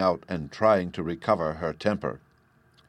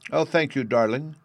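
delighted cry; 6 semitones higher, 3 dB louder than usual. Acted. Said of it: "cried Sylvie".

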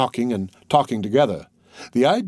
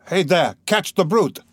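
shouted alarm; 5 semitones higher than usual. A narrator's reading. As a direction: yell to catch the runner. Someone shouting below.

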